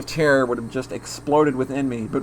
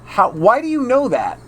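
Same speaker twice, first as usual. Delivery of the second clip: startled question; 8 semitones higher than usual. Acted. Keiichi startled, confronting Rena.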